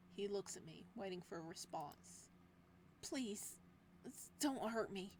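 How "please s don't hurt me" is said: weak plea. Acted. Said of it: "with the little strength I have left".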